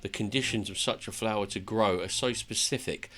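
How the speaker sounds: lightly acted fantasy monologue; earnest storyteller reading game dialogue; dramatic tale telling. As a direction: recount it like an epic journey. Reads dwarf's tale in character.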